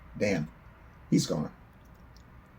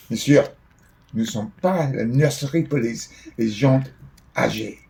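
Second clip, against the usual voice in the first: loud, higher-pitched Quebec officer; French policeman; 5 semitones higher, 9 dB louder than usual. Retold or imitated. Policeman refusing to babysit the old father, loud and indignant. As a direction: play the indignant local cop, loud.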